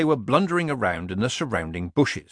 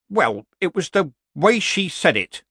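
said weakly; 7 semitones higher, 4 dB louder than usual. A narrator's reading. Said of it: "he added weakly".

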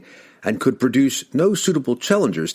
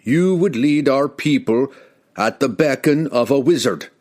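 raised, higher accusing retort; sharp retort; 5 semitones higher, 3 dB louder than usual. Acted. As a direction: fire back the accusation. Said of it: "Wulfgar retorted".

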